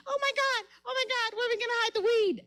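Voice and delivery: high, fast, breathless panic over hiding weed; panicked girls. Retold or imitated. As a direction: squeal it out in a rush, hammed-up. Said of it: "most of them were like".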